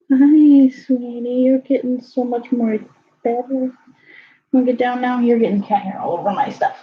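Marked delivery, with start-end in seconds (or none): 0.1-4.8 high, loud hello to the cat; excited pet talk. Real, not acted. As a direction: greet the cat with a burst of delight.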